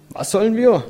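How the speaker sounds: put-on high child's questioning reply; lifted storybook child voice; child calling back. A narrator's reading. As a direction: pitch it up as a puzzled child. Children call back puzzled.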